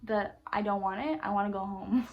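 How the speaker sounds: scornful mock telling-off; angry berating. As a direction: tear into him. Berating him at the drive-thru.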